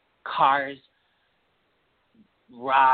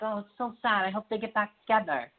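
higher mock pitying fans; mock sad fans; 7 semitones higher than usual. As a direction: parody the sentimental crowd. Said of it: "everyone's like".

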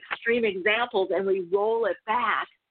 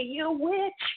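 much higher mock scream, building; imitating a frightened man's crying yell; retold screaming; 10 semitones higher, much slower than usual. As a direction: shriek the accusation, slowing at the end. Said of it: "he just started screaming at me".

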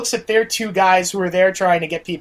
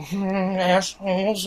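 mock grumble; 5 dB quieter, slower than usual. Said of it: "grumbling under their breath".

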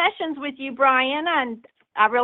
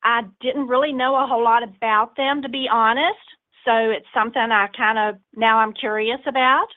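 southern accent. Real, not acted. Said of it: "I love this accent".

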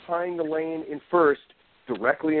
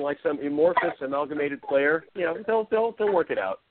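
mock reassuring; 6 semitones higher than usual. Mock cheerful reassurance, high.

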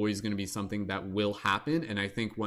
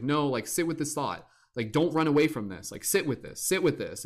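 a hint of a firm guide, higher; insistent mentor; 5 semitones higher than usual. Psychedelic mentor urging the tripper, lightly insistent. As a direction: gently insist like a teacher.

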